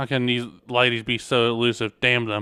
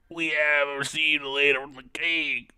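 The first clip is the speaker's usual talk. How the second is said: messenger in a lightly put-on voice; strained put-on voice; 2 semitones higher than usual. Messenger reporting to the prince, lightly put-on voice. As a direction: read it like a courier, a bit strained. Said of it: "I'm actually killing my voice doing that".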